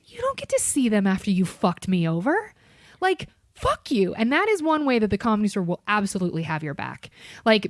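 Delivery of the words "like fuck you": mock defiance. Scorning the customer.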